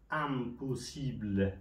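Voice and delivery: drawn-out "امپوسیبل" opening on a short A; IM read as اَ. Shown as a demonstration. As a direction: spell out "امپوسیبل" syllable by syllable, first vowel A, not I. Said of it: "صدای ا را داده". («امپوسیبل» شمرده، با صدای اَ در اول)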